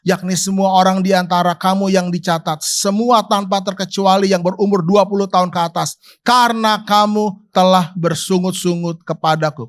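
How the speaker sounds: steady, solemn reading of Numbers; solemn Bible reading to the congregation; scripture reading. Acted. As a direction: read the verse like a formal proclamation. Reads scripture aloud.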